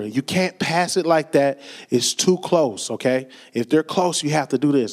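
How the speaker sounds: low, gentle, slowed-down explaining; soft daddy voice. Retold or imitated. Dad talking his upset daughter through a pass, soft daddy voice. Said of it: "I had to use my daddy, soft daddy voice".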